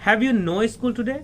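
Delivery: lightly acted stern father's demand; hot-tempered father. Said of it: "गरम मिजाज में".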